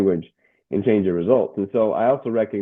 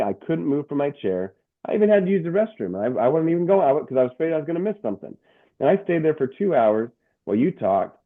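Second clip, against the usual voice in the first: higher, breathless retold amazement; amazed gushing; 5 semitones higher than usual. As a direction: imitate an awestruck listener pouring it out.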